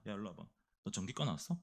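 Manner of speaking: low, hushed questioning; menacing summons. Acted. Jealous senior soldiers calling the recruit over, low and quiet. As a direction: call him over low and soft.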